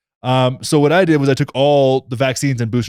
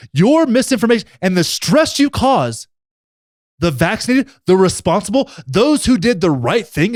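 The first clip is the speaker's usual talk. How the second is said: mock outrage; 5 semitones higher than usual. Mock-outraged lecture at the unvaccinated.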